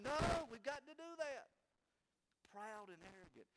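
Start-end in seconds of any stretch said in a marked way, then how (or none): 0.0-1.5 raised, louder mock yell; imitated yelling. Religious leaders insisting to the government, imitated yelling. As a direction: yell it like an insistent crowd, hammed-up. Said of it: "religious leaders yelling and screaming".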